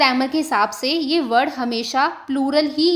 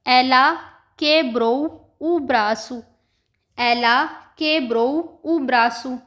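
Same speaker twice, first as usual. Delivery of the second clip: normal way example; much slower than usual. Shown as a demonstration. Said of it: "ये normal way हो गया".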